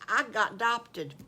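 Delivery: happy, contained reveal; pleased little announcement; big-smile announcement. Acted. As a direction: share good news through a big smile. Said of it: "says with a big smile on his face".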